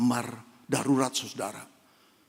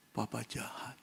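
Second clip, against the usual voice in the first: much softer, lower, repeated to himself; stricken echo; 3 semitones lower, 12 dB quieter than usual. Retold or imitated. Heartbroken father repeats his son's accusation, very soft. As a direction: let it fall out of you, crushed.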